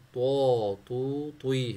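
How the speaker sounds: تو said full and heavy with the mouth open; heavy emphatic تو، توی demo. Shown as a demonstration. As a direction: punch تو thick and emphatic, not like Urdu تا. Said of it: "اس کو موٹا پڑھنا ہے".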